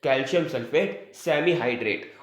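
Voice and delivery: "कैल्शियम सल्फेट सेमीहाइड्रेट" said slowly, each word spaced for note-taking; slow dictation. Shown as a demonstration. Teacher repeats the compound name slowly for the class. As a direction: spell the name out slowly so students can write it. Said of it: "क्या मिलता है?".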